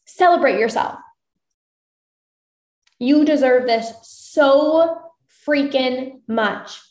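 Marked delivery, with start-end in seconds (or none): none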